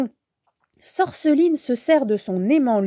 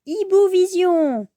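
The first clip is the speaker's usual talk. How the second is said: exclaiming; 7 semitones higher than usual. A narrator's reading. Bibou spots Sorceline with owl vision, exclaiming. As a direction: call out a power, then the discovery. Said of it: "s'exclame Bibou".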